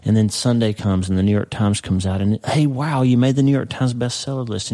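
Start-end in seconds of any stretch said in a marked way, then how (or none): 2.5-4.7 higher, delighted announcement; excited news. Pretend. Author learns of the bestseller list, delighted and higher. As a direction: sell the big news with a lift. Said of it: "and you're so excited".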